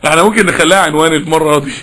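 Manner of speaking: low, chuckling delivery; amused laughing. Real, not acted. Preacher joking to listeners about the lecture's title, laughing. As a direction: chuckle through the words.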